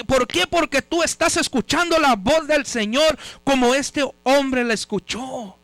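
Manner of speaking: insistent question-and-answer sermon cadence; emphatic preaching. Real, not acted. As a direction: hammer each answer home to the congregation. (predicación enfática)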